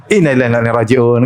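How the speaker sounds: quick, easygoing and unbothered; said calmly. Retold or imitated. Taxi driver with a burst tyre, calmly relaxed. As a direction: toss it off lightly, no alarm at all. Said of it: "gitu, ngomong santai".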